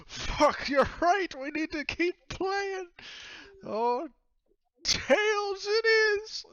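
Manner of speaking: very high, booming yell; wildly loud, stretched-out captain's cry; drunk captain shouting. Acted. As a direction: holler it with drunken gusto. Drunk captain resumes coin game.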